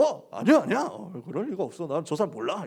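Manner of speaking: mock-flustered, hurried-sounding protest; flustered denial. Peter denying he knows Jesus, mildly flustered. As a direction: deny it as if caught out. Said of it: "베드로가 당황해가지고".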